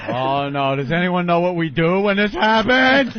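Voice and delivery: mock panic. Pilot asking around for help, mock rising panic. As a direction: let the helpless question climb into alarm. Imagining a pilot losing his cool.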